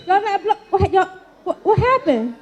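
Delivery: high, laughing disbelief; amused and giggling. Real, not acted. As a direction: laugh through the question. Laughing at the failed horns.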